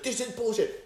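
high, mocking drunk outburst; mock angry yell. Guy kicked out of bar, mock angry yell. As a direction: yell it like a drunk who got thrown out. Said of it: "He's yelling".

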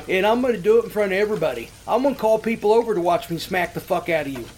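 angry threat. Retold or imitated. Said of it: "the caller's reply".

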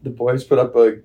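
retry the game recap as a California dude; California guy accent. Pretend. He tries the game recap again in a California accent. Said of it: "California guy accent".

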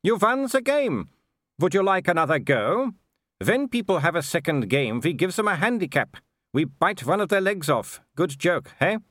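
high-pitched, gleeful werewolf villain; cheerful. A narrator's reading. Werewolf offers the intruders another game, cheerful. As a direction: toy with your prey, high and jolly. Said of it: "said Wolfgang cheerfully".

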